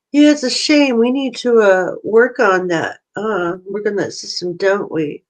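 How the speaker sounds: lightly mocking smart-ass kid. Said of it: "kinda like that smart ass voice".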